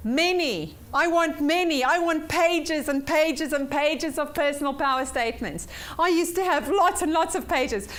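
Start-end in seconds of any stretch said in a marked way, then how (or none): 0.1-5.7 emphatic demand. Real, not acted. Teacher urging homework.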